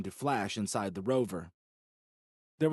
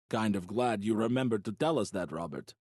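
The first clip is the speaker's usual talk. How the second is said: deadpan. Acted. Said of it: "Peter deadpanned".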